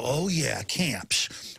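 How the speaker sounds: whispered, shrugging dismissal; imitating a dismissive listener, whispered; dismissive sheep. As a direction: brush it off, half-whispered and bored. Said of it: "They're just gonna go".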